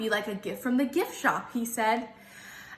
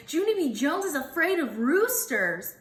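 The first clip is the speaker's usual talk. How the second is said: mocking kids hollering; 5 semitones higher than usual. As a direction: drag out the tease. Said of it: "they hollered".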